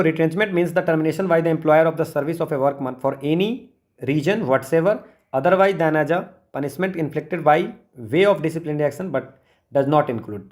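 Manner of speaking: slow, deliberate reading of the law text; slow definition reading. Acted. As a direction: dictate the definition so students can follow. Reads the legal definition. (कानूनी परिभाषा धीरे-धीरे पढ़ना)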